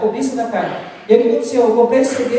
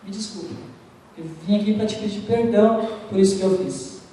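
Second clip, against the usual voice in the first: sincere apology; 2 semitones lower than usual. Retold or imitated. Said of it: "Eu falei".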